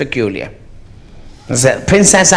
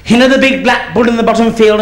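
put-on child's voice; 9 semitones higher, 4 dB louder than usual. Boy repeats to mother.

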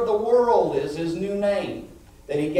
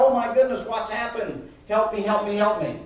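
acted panicked plea; mock distress, pitched up and urgent; crying to God; 4 semitones higher than usual. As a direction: imitate people begging heaven for help. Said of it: "Everyone come crying to God".

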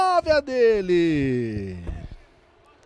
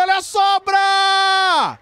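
excited shout; 12 semitones higher, 7 dB louder, slower than usual. Real, not acted. Rebound chance.

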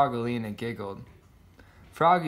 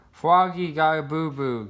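giggled teasing; 3 semitones higher, 3 dB louder than usual. A narrator's reading. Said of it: "giggled Polly".

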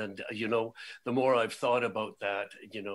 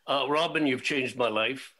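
heartfelt emotion; 3 semitones higher, 7 dB louder than usual. Real, not acted. Host thanking Robin who changed his life, moved and heartfelt. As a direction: say it straight to her, overcome. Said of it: "I'm getting emotional already".

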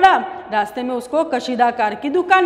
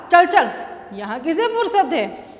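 scolding; 3 semitones higher than usual. Acted. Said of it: "फिर उसे धमकाया और कहा".

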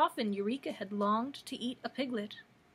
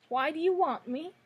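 higher, louder, unsettled question; disturbed; 6 semitones higher, 6 dB louder than usual. A narrator's reading. Kitten answering Dorothy's threat, disturbed. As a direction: raise the pitch as if rattled by a threat. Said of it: "disturbed by this threat".

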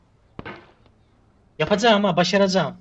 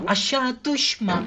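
"Aşağı düşme" stretched out very slowly, higher, under the breath; slow tense plea; 6 semitones higher, much slower than usual. Real, not acted. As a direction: beg the character slowly not to fall. Pleading with falling character. ("Aşağı düşme" çok yavaş, yüksek perdeden, alçak sesle yalvarma)

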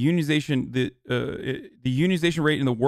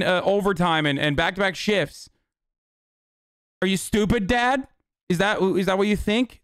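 raised-pitch exasperated scolding of a clueless father; mock rant at dad; 3 semitones higher than usual. Son berating his dad over unions, mock angry. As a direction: tear into your dad like a fed-up kid, half joking. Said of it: "be like".

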